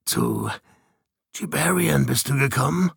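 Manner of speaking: nearly composed, feeling out the question; almost calm. A narrator's reading. Snow questioning the visitor about Jiberian, almost calm. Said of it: "sagte er fast ruhig".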